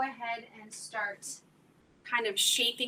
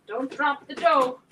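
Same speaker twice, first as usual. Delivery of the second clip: sudden loud warning, slower; urgent exclaim; 9 dB louder than usual. Real, not acted. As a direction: blurt it out in alarm. Nearly drops dough, exclaims.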